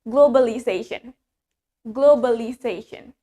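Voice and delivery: GLOBALIZATION with a short plain O, no W glide; American globalization with an unglided first O. Shown as a demonstration. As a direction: say GLOBALIZATION the American way, "glo-ba-li-zation". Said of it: "While in America, we say it".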